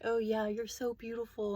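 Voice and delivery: breathy whispered imitation of his line; whispered compliment. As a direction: whisper it the way he leaned in.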